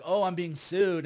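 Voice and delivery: slow, drawn-out imitation of a complainer; mock complaint. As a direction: mimic someone crying about being sued. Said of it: "try to cry that I'm suing them".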